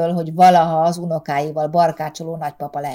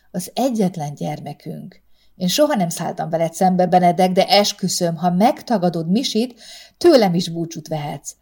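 firm ultimatum. Acted. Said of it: "tornyosult Erika váratlanul".

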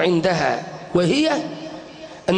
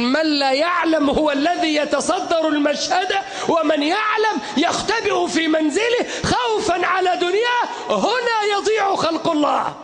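fiery shouted sermon; soapbox orator; 7 semitones higher than usual. Acted. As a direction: preach it with full force to a crowd.

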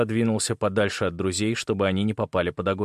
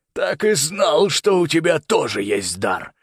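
loud, high gloating cry; raised-voice villain's triumph; triumphant outburst; 5 semitones higher, 4 dB louder, slower than usual. A narrator's reading. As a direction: exclaim in vindication. Villain exults at his discovery.

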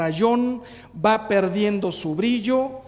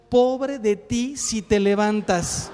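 wife's threat; 5 dB louder, slower than usual. Retold or imitated. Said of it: "es que me dijo".

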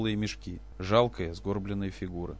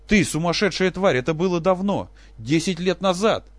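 high, loud enraged scream; furious shout; 9 semitones higher, 9 dB louder than usual. Acted. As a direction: scream the insult at her. Professor screams at Olesya.

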